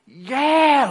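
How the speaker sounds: high, loud eager whoop; excited yell. Retold or imitated. Young David joining the battle cry, loud whoop. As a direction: join the cheer with gusto. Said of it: "he's like".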